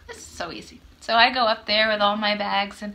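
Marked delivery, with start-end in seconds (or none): 0.1-0.8 cocky thought. Retold or imitated. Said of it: "I'm like".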